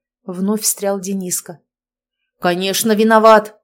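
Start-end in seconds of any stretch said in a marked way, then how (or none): 2.4-3.6 loud outburst, building to a shout; exploding. A narrator's reading. Father blames daughter's boyfriend, exploding. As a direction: blow up at him, punching the last word. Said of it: "взорвался Толик".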